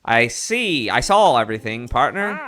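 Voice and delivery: lightly put-on mid-Atlantic reporter; punchy delivery with a hint of mid-Atlantic accent; mock mid-Atlantic accent. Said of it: "like, a mid-Atlantic accent".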